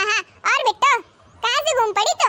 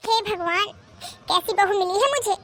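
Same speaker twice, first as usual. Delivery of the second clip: dejected lament; 4 semitones lower, 4 dB quieter than usual. Acted. Lamenting to herself after defeat.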